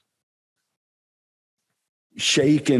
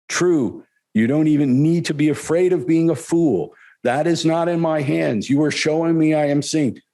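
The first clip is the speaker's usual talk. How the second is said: lightly raised, earnest master's voice; a hint of the teacher answering kindly, a bit higher; lightly voiced guru reassuring a student; Gurudev; 5 semitones higher than usual. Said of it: "quoting Gurudev's reply".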